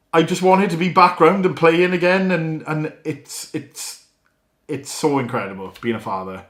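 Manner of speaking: choked up, voice cracking into a breath; a dad losing it mid-sentence, real; real tears welling. Real, not acted. Father telling viewers about his baby, choked up and fading to breath. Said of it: "I lost it a little bit there".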